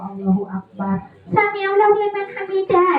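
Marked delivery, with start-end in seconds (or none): 1.3-2.9 quick puppet recitation; mock prayer call. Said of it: "malah sholat".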